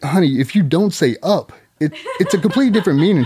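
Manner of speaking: husband correcting his wife's wording, laughing; laughing explanation. Retold or imitated. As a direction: explain it while cracking up.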